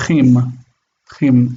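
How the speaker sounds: Chim begun with a throaty kh, as in Bach; soft kaf. Shown as a demonstration. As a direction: scrape the Ch of Chim in the throat, never a k. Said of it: "is soft. It's ch".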